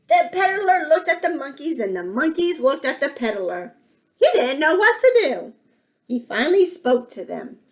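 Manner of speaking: lilting picture-book narration; children's story reading. A narrator's reading. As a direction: tell it to small children, lingering on the details.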